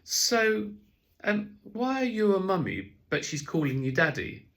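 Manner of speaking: put-on high, loud child asking a cheeky question; a small kid with hands on his hips, demanding; little boy's voice. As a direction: play the nosy little boy, voice up high. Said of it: "He said".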